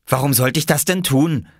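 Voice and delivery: put-on high girl's voice, questioning; high childlike reply; child character. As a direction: lift the pitch like a young girl asking back. Girl answers in story dialogue.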